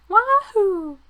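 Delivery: loud, high, goofy whoop; silly clown. Pretend. Cheering a comic sound effect.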